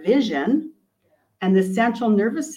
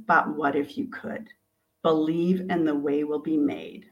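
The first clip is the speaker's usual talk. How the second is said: encouraging inner voice; 3 semitones lower, 4 dB quieter than usual. Acted. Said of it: "the voice that says".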